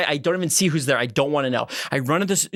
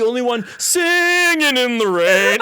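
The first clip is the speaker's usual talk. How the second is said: louder, slow, triumphant; gleeful; 5 semitones higher, 4 dB louder, slower than usual. Retold or imitated. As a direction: savor it like a happy dance. Joyful mock dancing in sewage.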